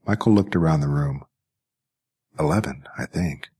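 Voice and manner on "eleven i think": unsure whispered answer. A narrator's reading. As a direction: breathe it out, unsure of your own age. Uncertain boy answers the voice.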